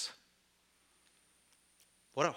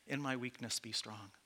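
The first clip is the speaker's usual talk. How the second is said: soft humble plea; 5 dB quieter than usual. Retold or imitated. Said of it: "I can see Jesus looking at me".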